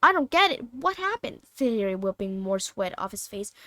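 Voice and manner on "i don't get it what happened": confused. Acted. Harry confused after faint.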